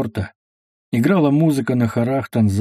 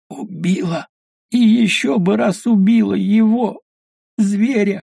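hateful; 9 semitones higher than usual. Acted. The buried woman tells the tsar with hatred that she would kill him again. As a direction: spit out her hatred for the husband. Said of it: "и хрипло, глухо, ненавистно".

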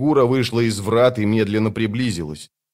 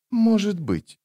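put-on young woman's voice; 10 semitones higher, slower than usual. A narrator's reading. Sister voiced high.

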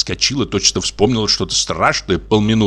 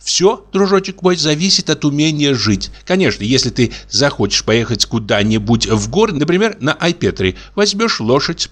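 put-on chatty young wife; 6 semitones higher than usual. Wife chatters about Crimea.

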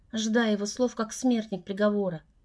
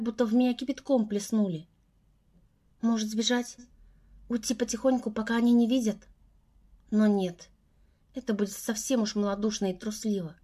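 ordinary delivery, nothing marked

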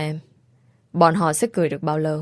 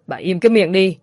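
angry; 4 dB louder than usual. Acted. Husband silences blaming wife.

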